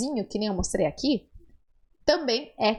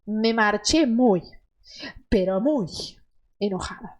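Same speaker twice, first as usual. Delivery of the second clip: muy held and weighted, enojada trailing off; stressed muy; 2 semitones lower than usual. Shown as a demonstration. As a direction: stretch out muy, pero muy. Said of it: "pra dar aquela intensidade".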